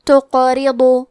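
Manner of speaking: تقرضوا میں قاف کو ہلا کر قلقلہ سے; قاف ساکن کو جھٹکے سے ادا کریں; قلقلہ کے ساتھ. Shown as a demonstration. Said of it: "ہلاتے ہوئے یہ کلمہ کو پڑھیں گے". (قاف کو قلقلہ سے ہلاتے ہوئے)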